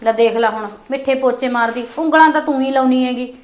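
soft, low muttered complaint under the breath; grumbling aside. Acted. Daughter-in-law grumbling alone in the kitchen, soft and low. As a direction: grumble so the mother-in-law won't hear.

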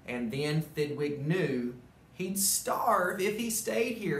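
lively storybook narration; animated read-aloud; reading to children. A narrator's reading. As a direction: tell it like a bedtime story to kids. Reads Dr. Seuss story aloud.

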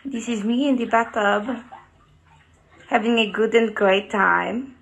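careful, mock French-accented English; lightly hammed-up French accent; put-on French accent. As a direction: speak English like a French speaker, measured and deliberate. Put-on foreign accent bit in bathtub.

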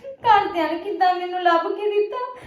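crying out a hurt question; tearful protest. Acted. Daughter protesting to her mother about the match, crying.

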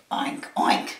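short storybook oinks; lightly voiced pig; pig grunt. A narrator's reading. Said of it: "grunted the pig".

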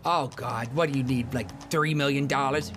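lightly voiced whiny friend, slow on three million; a put-upon pal groaning at the ask; Lester voice. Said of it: "But I'll just reenact it".

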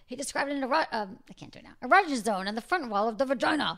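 loud, hammed-up German accent. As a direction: read it like a German professor. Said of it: "let me get in my German accent".

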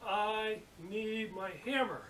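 high, slow, overstretched exasperation; mock berserk. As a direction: imitate a last-straw plea, each word dragged out. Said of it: "That guy's going berserk now".

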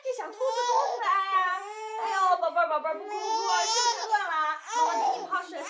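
put-on soothing baby. Mother tries soothing crying baby.

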